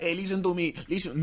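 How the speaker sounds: high, loud mock African lady; hammed-up old African woman demanding attention. Jesus as old African lady accosting him, high and loud. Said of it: "some old African lady?".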